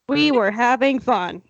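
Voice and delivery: "We were having fun" level, falling to a full stop; ending on a period. Shown as a demonstration. Reader corrects cohost's exclamation point, "We were having fun" with a final fall. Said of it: "No, period".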